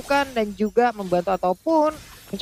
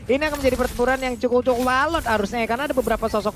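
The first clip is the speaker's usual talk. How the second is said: hyped esports caster; 4 semitones higher than usual. Acted. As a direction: call the kill like it's huge. Caster calls first blood.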